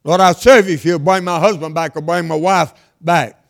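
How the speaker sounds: loud mock prayer. Preacher acting a churchgoer bargaining with God, loud plea. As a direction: call it out like a bargain with heaven.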